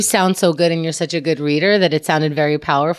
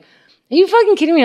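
mock outraged disbelief; 11 semitones higher, 4 dB louder than usual. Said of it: "And I'm like".

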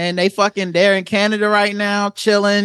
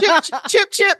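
mock English accent; 10 semitones higher than usual. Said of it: "doing fake English accents".

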